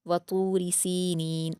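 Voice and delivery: slow, careful Quranic reading; slow recited verse; tajweed recitation. Shown as a demonstration. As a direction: draw the verse out slowly. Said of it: "त्वा को पुर पढ़ेंगे".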